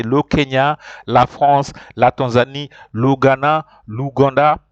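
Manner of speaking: "l'Uganda" said luganda, with the article joined on; teacher models each French name with its article; French country names. Shown as a demonstration. Teacher listing countries in French for the class. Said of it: "you have to say".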